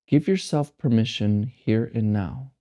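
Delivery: measured meditation guide, long silences between phrases; guided meditation. Acted. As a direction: guide them to let go, one unhurried phrase at a time.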